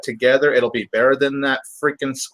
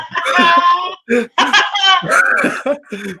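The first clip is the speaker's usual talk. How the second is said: loud, high burst of laughter; hearty laugh; 6 dB louder than usual. Real, not acted. Cracking up mid-review with cohosts, a loud laugh. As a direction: let a long laugh take over.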